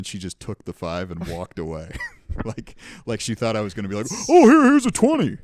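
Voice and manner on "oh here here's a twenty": high, loud, gushing offer; mock generous. What she expected him to say, high and gushing. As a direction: play the sucker handing over more cash.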